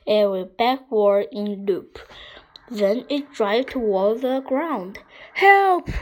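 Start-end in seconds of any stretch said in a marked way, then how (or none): 5.3-5.9 high, loud cry of alarm; urgent high shout; yell for help. A narrator's reading. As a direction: yell out for rescue. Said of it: "yelled Harold".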